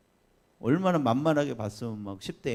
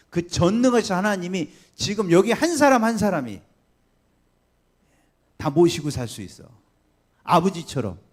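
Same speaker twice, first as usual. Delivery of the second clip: loud, higher, rising sermon climax; full-force preaching; 5 semitones higher, 9 dB louder than usual. Acted. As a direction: build it up to a triumphant proclamation. Climax of gospel message.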